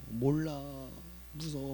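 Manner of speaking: put-on a touch of a small boy's fear; scared child. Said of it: "무섭다는 거예요". (겁먹은 아이를 살짝 흉내 내며 작아지는 목소리)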